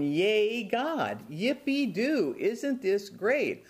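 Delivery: slow, hammed-up yippee cheer; mock cheering. Pastor mocking the celebration Jonah should have had, hammy cheer. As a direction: play a gleeful celebration, tongue in cheek. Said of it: "would be over in the corner going".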